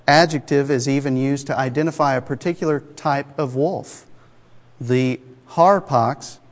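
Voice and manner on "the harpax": harpax said slowly, HAR-paks, both syllables drawn out; careful Greek word. Shown as a demonstration. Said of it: "I don't know if I'm pronouncing it right".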